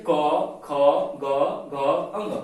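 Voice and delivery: क, ख, ग, घ as separate clear syllables; throat sounds. Shown as a demonstration. Teacher urging students to try, throat letters sounded out. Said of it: "कंठ से आ रहा है".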